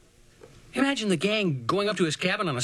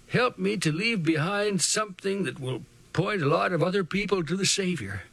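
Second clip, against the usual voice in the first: put-on quiet praying old man; 3 semitones higher than usual. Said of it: "his trembling voice started in praying a quiet prayer".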